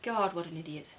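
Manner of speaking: dismissive scorn under the breath; a private eye-roll at her husband; scornful inner thought. Retold or imitated. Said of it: "my first reaction is".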